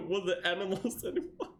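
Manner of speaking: giggling fix of the misread line; amused self-correction; laughing correction. Real, not acted. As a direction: reread it through a laugh. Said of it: "Wait, no, not the in the animal".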